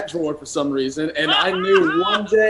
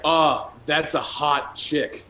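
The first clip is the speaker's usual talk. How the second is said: American accent; 3 dB quieter, much slower than usual. Shown as a demonstration. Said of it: "Be like".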